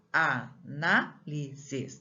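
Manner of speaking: "análises" slowly broken into four beats; syllable by syllable. Shown as a demonstration. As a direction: sound out "análises" as a-na-li-ses. Teacher demonstrates syllable division.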